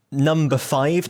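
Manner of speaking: slow drawn-out number call; bingo caller. Shown as a demonstration. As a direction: stretch the call like a bingo host. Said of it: "I'm, like, doing bingo calling".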